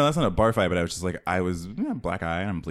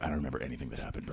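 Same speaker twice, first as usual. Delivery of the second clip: put-on bro drunk voice; 6 semitones lower, 9 dB quieter, much faster than usual. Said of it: "I'm just like".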